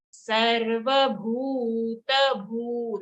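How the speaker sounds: chanted "Sarvabhuta bhu" with the u held long. Shown as a demonstration. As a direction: stretch the bhu generously. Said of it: "Nice and long sound".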